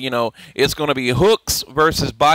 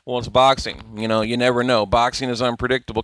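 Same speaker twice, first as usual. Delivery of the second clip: mild nonchalance; 4 semitones lower than usual. Retold or imitated. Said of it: "nonchalant way".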